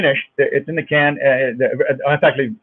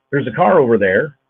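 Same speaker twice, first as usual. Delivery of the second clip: Minnesota accent; 3 semitones higher, 4 dB louder than usual. Shown as a demonstration. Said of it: "a kind of a rhythm here".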